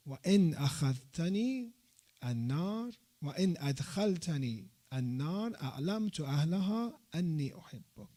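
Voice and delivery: fast, flowing Arabic prayer recitation; rapid dua recitation. Acted. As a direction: rattle the supplication off quickly, as a prayer.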